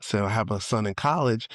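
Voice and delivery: normal talking voice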